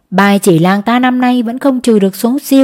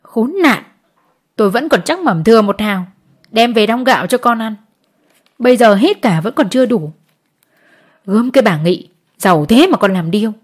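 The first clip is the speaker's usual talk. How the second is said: whimpering. Acted. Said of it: "Chị Dậu lại mếu".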